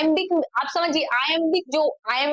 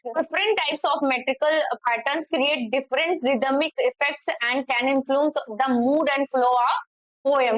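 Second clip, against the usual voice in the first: slow, deliberate reading of an English definition; slide reading; much slower than usual. Shown as a demonstration. Teacher reading a poetry definition to students, slow and deliberate. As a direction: read the slide out word by word.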